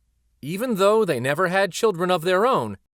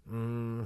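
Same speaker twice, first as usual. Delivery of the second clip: soft hum; 4 semitones lower, 12 dB quieter than usual. Acted. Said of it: "started to hum again".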